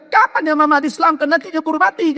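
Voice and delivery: put-on high, frail old mother asking to convert; dying mother's voice. Dying mother asking her son when she'll be converted, high frail voice. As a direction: voice the weak mother, pitched high. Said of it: "Apa dia bilang".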